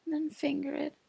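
whispering. Real, not acted. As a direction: whisper it, sighing between phrases. Long sultry whispered monologue.

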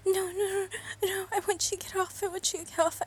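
loud, urgent no's; panicked pleading; frightened protest. Acted. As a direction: cry out in alarm.

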